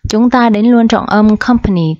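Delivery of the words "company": "company" stressed on COM, the first syllable. Shown as a demonstration. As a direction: put the beat at the start of "company". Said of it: "trọng âm một".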